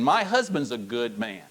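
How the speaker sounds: preacher showing wives how to say it with conviction; convincing. Shown as a demonstration. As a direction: convince the room. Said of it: "Let's try that again".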